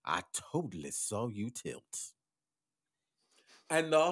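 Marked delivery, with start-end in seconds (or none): 0.0-2.1 warning woman. Acted. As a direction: open loud and drawn out, then sink down. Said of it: "the black woman turns to him and says".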